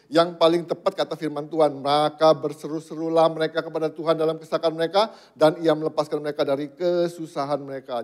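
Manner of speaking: loud, emphatic scripture recital; loud proclamation. Real, not acted. Preacher giving God's word as the best advice, loud proclamation. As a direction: drive the verse home loudly.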